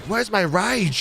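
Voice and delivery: high mock Australian complaint; bad Australian accent. Teammate looking for his rage, badly faked Australian accent. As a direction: pitch it up into a poor Australian impression. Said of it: "I can't do an Australian voice".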